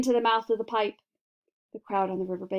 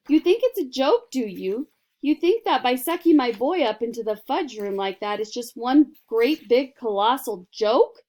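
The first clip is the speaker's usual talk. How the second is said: angry; 3 semitones higher, 7 dB louder than usual. A narrator's reading. Furious mother accusing Wonka.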